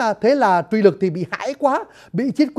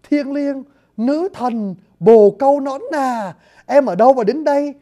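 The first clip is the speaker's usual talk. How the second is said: higher, gushing lover's praise; swooning lover; 4 semitones higher than usual. Retold or imitated. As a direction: pour out cheap flattery, pitched up. Thích Nhân swoons over her. (giọng chàng si tình, cao giọng tán tỉnh)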